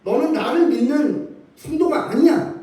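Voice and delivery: mock rebuke. Preacher voicing the rebuke God does not give, mock scolding. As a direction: play a stern God rebuking doubters, half in jest. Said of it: "라고 책망하시는 말씀이 아닙니다".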